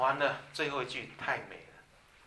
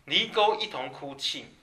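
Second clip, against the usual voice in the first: scripture reading; 4 dB louder, slower than usual. Acted. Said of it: "最后他讲说".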